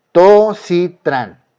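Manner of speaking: tositran slow and loud, three separate syllables. Shown as a demonstration. Teacher filling the chart right to left, slow separated syllables. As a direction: spell out tositran backwards, syllable after syllable. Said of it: "por sílabas".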